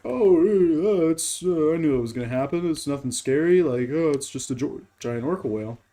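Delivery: put-on casual dismissal; mocking nonchalance. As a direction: imitate someone too chill, mockingly. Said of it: "That's just too much to be like".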